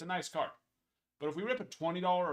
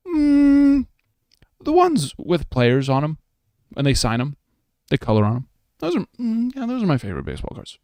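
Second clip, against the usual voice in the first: put-on childish guest voice; 17 dB louder than usual. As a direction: answer like an excited little kid.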